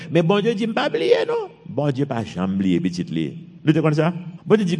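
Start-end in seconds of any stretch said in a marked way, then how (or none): 0.1-1.5 preaching shout. Real, not acted. Preacher proclaiming God's faithfulness.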